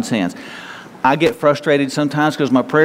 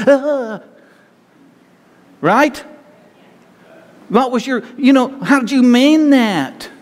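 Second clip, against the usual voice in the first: exasperated counselor; 4 semitones higher than usual. Retold or imitated. Pastor lecturing bickering couple.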